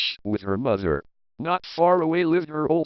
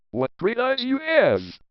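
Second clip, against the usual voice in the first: high, wide-eyed exclamation; a child gasping in wonder; amazed girl; 10 semitones higher than usual. A narrator's reading. Girl marvels at grandmother's eyes, pitched high.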